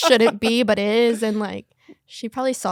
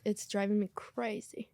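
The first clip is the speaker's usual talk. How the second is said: whispered; 9 dB quieter than usual. Real, not acted. Aside about her hair.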